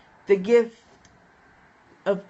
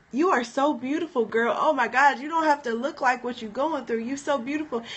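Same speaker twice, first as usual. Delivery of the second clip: higher-pitched, tender encouragement; gushing friend; 4 semitones higher than usual. Retold or imitated. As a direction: gush over her like a loving friend. Retold friend gushing over her.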